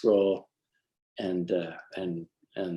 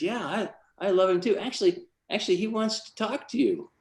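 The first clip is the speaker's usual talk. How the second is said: excited retelling; 11 semitones higher than usual. Retold or imitated. Friend cheerfully passing on invitation.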